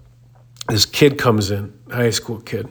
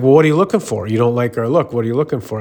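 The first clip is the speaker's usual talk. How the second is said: 1 needling gym guy; 2 semitones higher, much faster than usual. Retold or imitated.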